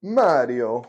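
put-on Italian accent. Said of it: "my Italian accent".

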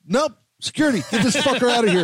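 high-pitched retold call-out; mock call for security. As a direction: imitate summoning the bouncers. Retold singer calling for security.

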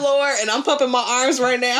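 laughing through the words; fighting back a laugh; stifled giggles. Real, not acted. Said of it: "I'm really trying not to laugh".

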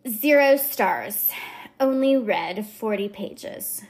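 lightly voiced Valley Girl reviewer. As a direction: read the rant with a hint of Valley Girl. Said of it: "the Valley Girl kind of is my go-to voice".

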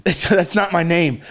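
stammered punchline through laughter; amused, laugh-laced words. Real, not acted. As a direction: deliver the quote while breaking up.

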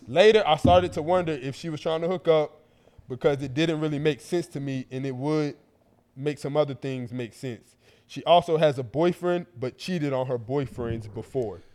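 measured, careful read-aloud; deliberate letter reading. A narrator's reading. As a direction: read it out phrase by phrase.

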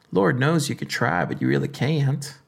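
put-on a light southern accent. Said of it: "that's my southern accent right there".

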